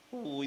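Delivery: high, drawn-out "koooy" call; demonstrated hoot. Shown as a demonstration. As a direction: give a brief hooting call. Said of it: "നന്നായി കൂവി വിളിക്കാൻ പറ്റുന്ന". (കൂവി വിളിക്കുന്ന ശബ്ദം)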